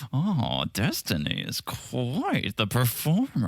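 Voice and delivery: slow, drawn-out parody voice; Sandy impression. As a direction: stretch it out, lightly subdued. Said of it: "I'm doing a parody of it".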